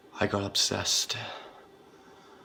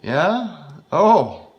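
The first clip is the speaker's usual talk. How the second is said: louder, higher jeering; sadistic taunting; 9 semitones higher, 11 dB louder than usual. Acted. Mocking the tied-up killer, loud. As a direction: jeer at him cruelly.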